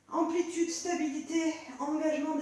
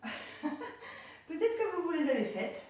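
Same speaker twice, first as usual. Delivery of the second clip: laughing; slower than usual. Real, not acted. Laughs after forgetting push-ups.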